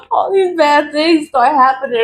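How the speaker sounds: can't keep the glee out; laughing while talking. Real, not acted. Laughing through the line.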